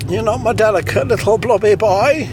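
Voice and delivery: high prim puppet voice. Acted. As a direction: coo it like a fussy old puppet. Puppet voice reassuring Cecil.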